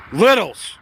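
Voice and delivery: calling out. Real, not acted. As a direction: call everyone in. Calling the kids again.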